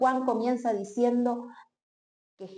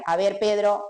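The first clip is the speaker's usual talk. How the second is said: mock reproach; 3 semitones higher, 3 dB louder than usual. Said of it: "no era amonestándolos".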